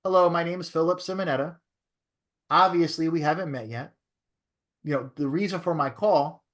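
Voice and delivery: measured cold-call opener with pauses between phrases; good sales tonality. Shown as a demonstration. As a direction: demo a slowed-down, deliberate phone pitch. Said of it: "you're gonna talk like that".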